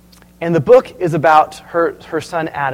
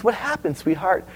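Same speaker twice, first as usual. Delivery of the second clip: put-on a soft question to an upset child; concerned mother; 5 dB quieter than usual. Mom asks her crying kid on Christmas morning, mildly concerned.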